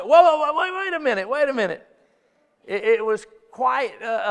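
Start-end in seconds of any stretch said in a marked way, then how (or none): 0.0-1.9 high, loud startled wait a minute; startled whoa. Retold or imitated. Husband caught off guard by his wife's reply, high startled protest. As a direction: pull up short in mock shock. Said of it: "in this moment, it's like".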